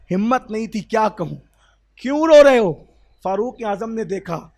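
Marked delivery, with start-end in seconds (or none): 1.9-2.7 much higher and louder, calling out; urgent loud asking. Acted. Prophet calling to weeping Abdullah, loud and high. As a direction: ask it like you can't bear his tears.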